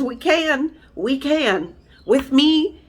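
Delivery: choking up mid-sentence; getting emotional. Real, not acted. Telling viewers about her sister, voice breaking with emotion. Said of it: "sorry guys, I'm getting emotional".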